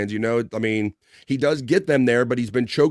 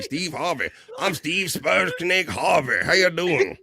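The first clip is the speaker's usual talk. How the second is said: hammed-up game show host, higher and slow, calling out; Steve Harvey impression; 6 semitones higher, slower than usual. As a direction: announce yourself like a big flashy TV host. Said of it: "You can be".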